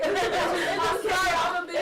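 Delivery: real tears breaking through the words; crying. Real, not acted. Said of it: "Don't cry".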